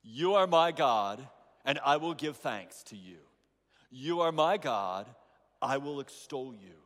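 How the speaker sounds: congregation reading aloud together; many voices in unison. Real, not acted. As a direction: read it aloud in unison, full voice. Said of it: "Let's read it aloud together".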